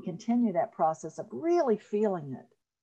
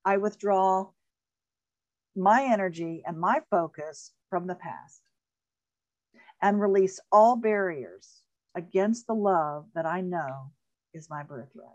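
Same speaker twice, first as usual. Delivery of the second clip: spoken affirmation. Shown as a demonstration. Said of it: "I'll say it out loud again".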